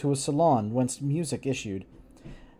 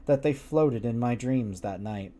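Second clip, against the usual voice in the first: usual speaking voice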